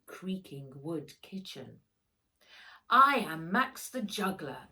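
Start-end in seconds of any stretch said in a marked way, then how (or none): 2.9-4.7 louder, grand showman announcement; announcing. Acted. Max shows off juggling for Grandpa, announcing loudly. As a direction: proclaim it like a ringmaster. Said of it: "announced Max".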